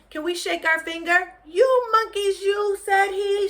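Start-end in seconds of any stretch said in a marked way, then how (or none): 1.4-2.8 high, loud, sing-song scold; peddler scolding again. Acted. Teacher repeats the peddler scolding the monkeys, high and loud. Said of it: "shaking his finger at them".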